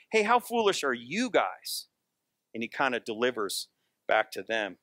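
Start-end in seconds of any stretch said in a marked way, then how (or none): 0.1-1.9 mild retort. Retold or imitated. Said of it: "Jesus retorts a little bit".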